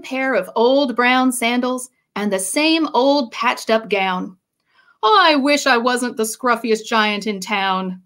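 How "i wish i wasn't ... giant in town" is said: sadly. Acted. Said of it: "he said sadly".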